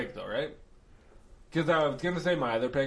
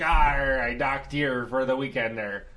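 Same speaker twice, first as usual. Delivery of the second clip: Blackbeard impression; 4 dB louder, slower than usual. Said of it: "that's my Blackbeard impression".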